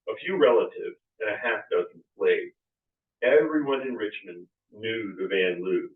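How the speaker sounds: reading his book aloud; story narration. Acted. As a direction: read it like a storyteller. Author reads aloud from his book.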